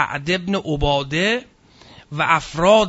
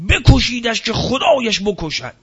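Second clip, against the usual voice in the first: retold shout; 4 semitones higher, 4 dB louder than usual. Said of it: "بانگ زد".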